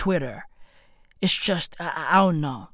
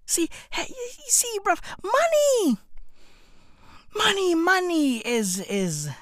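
softer, higher confiding voice; hushed aside; 8 semitones higher, 6 dB quieter than usual. Real, not acted. Comedian confides to the audience about money, hushed aside. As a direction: lean in and hush it.

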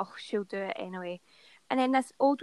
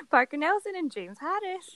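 high-pitched call to two dogs; 8 semitones higher than usual. Shown as a demonstration. Owner calling two imaginary dogs, high dog-calling voice. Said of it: "Do your dog calling voice".

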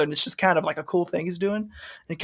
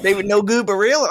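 put-on Southern accent. Echoing co-host's nickname for him, Southern accent. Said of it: "You have a very good Southern accent".

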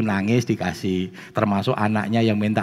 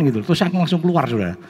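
ordinary talk, nothing marked

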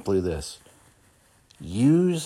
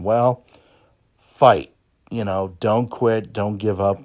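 loud pep-talk shout; rallying cry; 7 dB louder than usual. Real, not acted. Host urging listeners not to quit, loud rallying. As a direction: fire the listeners up, push them.

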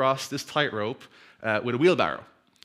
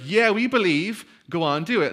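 mock crowd cheer, higher and louder; 6 semitones higher, 5 dB louder than usual. Crowd urges the walker on, mock cheering. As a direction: egg him on like a crowd.

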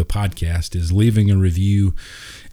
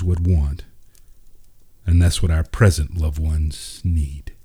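gentle storyteller reading a tale aloud; story narration. A narrator's reading. Podcast host reading a Christmas story to listeners, storytelling voice. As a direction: read it like a fireside story, unhurried.

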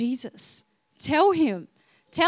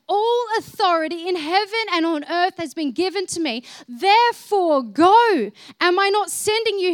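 commanding Jesus voice; 3 semitones higher, 6 dB louder than usual. Acted. Preacher voicing Jesus' commission.

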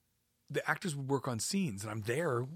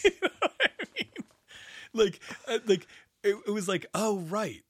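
high, loud words through laughter; laughing while talking; 9 semitones higher, 6 dB louder than usual. Real, not acted. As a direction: keep laughing as you go on.

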